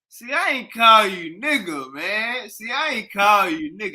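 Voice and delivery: high, loud imitation of the man; mock insistent quote. Retelling what he was like, high mocking imitation. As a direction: pitch it way up, mimicking his protest. Mimics the man being retold.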